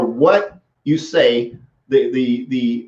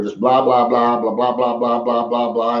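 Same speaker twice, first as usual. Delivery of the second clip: mocking blather. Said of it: "some goofball had posted all this just blather".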